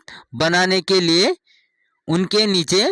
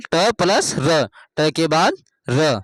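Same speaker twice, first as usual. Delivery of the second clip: slow demo; slower than usual. Shown as a demonstration. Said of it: "teacher spells out letter sum".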